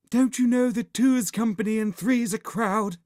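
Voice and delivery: high, loud vampire voice; hissing vampire. A narrator's reading. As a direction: scold them as a shrill-pitched vampire. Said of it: "hissed the vampire".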